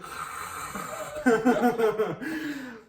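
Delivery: noisy rasping breath imitation, then laughing; drawn-out snorting breath breaking into laughter; mock weird snore. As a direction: imitate an odd snore from someone passed out. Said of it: "like a really weird snore sound".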